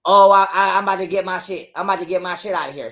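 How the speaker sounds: loud burst then quick mocking mimic; a hint of the flustered ex making excuses; mocking ex's excuse. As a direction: imitate her flustered excuse, sped up. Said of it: "she acting like she wanna grab".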